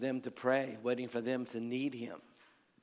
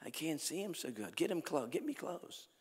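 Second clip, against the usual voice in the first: lightly voiced insistent mother, pitch lifting; imitated pleading mother; 3 semitones higher, 4 dB quieter than usual. Mother begging her son for closer seats, mildly imitated pleading.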